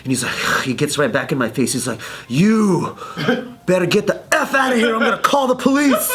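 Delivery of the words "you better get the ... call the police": high mock-indignant threat; retold angry threat. Bleeding aggressor to his opponent, indignant. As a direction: imitate a beaten man's indignant warning.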